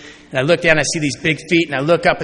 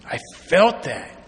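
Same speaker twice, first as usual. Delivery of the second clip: put-on tearful big kid; slower than usual. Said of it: "he's crying like a little".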